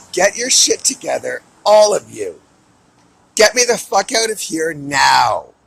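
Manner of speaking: loud, furious yelling at everyone; a raging outburst, full volume; furious shouting. Real, not acted. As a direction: bellow it out in real rage. Furious rant at captors.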